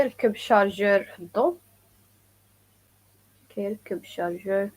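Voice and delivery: "ركب الشارجور في الضوء" at native speed; quick natural delivery; fast full-speed repeat. Shown as a demonstration. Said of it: "some people say also".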